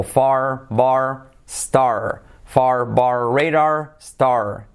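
very slow, each word drawn out; slow repetition drill. Shown as a demonstration. Teacher giving students words to repeat, very slow drill. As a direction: stretch each word with a held final R. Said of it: "y repetirías".

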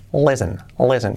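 LISTEN as "lessen", no t; silent T. Shown as a demonstration. Teacher models it sin esa T, silent T. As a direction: say "listen" twice, t left out. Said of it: "siempre pues sin esa T".

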